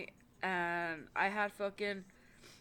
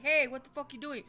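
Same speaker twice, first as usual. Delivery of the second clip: higher, louder startled yell; neighbors yelling; 6 semitones higher, 8 dB louder than usual. Retold or imitated. Neighbors seeing a gun pulled, alarmed yell. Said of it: "they're like".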